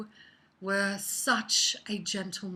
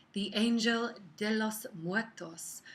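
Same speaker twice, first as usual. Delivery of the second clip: Angel de los Muertos in a careful, light Spanish accent, Muertos said as mwɔtɔs. Shown as a demonstration. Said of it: "I hope my accent and what I'm gonna say makes sense".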